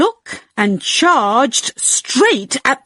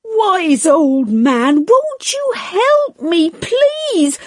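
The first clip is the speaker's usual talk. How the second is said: put-on much higher, tearful begging little old woman; pleading old lady; 9 semitones higher than usual. A narrator's reading. Old lady begs the wise old man, much higher and tearful. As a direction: beg desperately, nearly crying. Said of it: "And she said".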